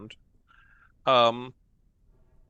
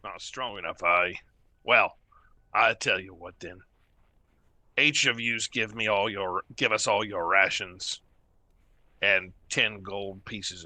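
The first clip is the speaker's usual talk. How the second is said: bugbear voice. Acted. Bugbear threatening party.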